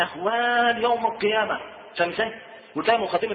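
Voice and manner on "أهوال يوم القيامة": slow, ominous announcer-style phrasing; a scary tape intro voice; doom-laden. Shown as a demonstration. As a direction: drag it out to frighten. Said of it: "ما نقولش إيه؟".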